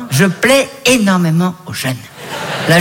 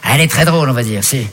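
grudging praise; 5 semitones lower than usual. Acted. Grudging praise of rival comic.

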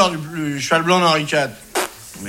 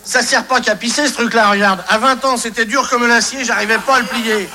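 lightly raised, reedy hint of an old man; old man of eighty; 6 semitones higher than usual. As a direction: play a chuckling eighty-year-old, only slightly aged. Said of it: "C'est un vieux monsieur de quatre-vingts ans".

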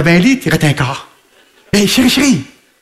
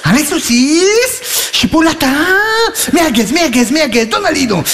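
mock call to sausages; 5 semitones higher, slower than usual. Calling to sausages, high and drawn.

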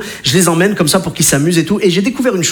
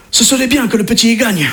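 put-on Italian accent. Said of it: "prendre l'accent italien".

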